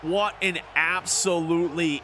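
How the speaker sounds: slow, measured announcer read with music under it; lingering broadcast voice; broadcaster voice. Acted. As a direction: still in sportscaster mode. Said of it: "My broadcaster voice is still on".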